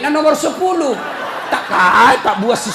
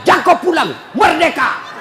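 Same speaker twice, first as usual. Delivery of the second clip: mock angry wife yelling him out; louder, snapping like a fed-up wife; nagging wife's shout; 3 semitones higher, 4 dB louder than usual. Preacher mimics wife chasing husband out, mock shouting. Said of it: "Maka dia bilang".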